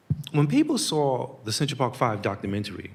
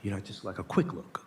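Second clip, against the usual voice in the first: imitating hesitant confession; 3 semitones lower than usual. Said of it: "he said".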